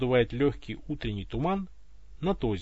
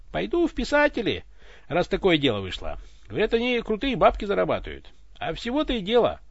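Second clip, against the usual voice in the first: voice of the Voice; 4 dB louder than usual. Acted. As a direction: boast it loudly, pleased with yourself. Narrator voices drunk tsar figure. (громкий, хвастливый голос)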